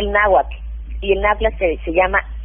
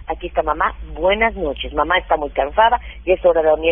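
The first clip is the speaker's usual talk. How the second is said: lightly acted, low bedtime reassurance; tired mum saying goodnight, understated; soothing mother; 4 semitones lower than usual. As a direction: settle a child with a calm, lowered voice. Mother's bedtime words to child.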